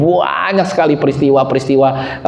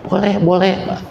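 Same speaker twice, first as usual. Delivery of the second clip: moved voice; 7 semitones higher than usual. Retold or imitated. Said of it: "udah terharu".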